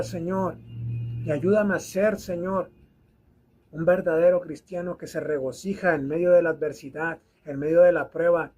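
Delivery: pleading prayer, voice dropping toward the end. Acted. Prayer to the Lord.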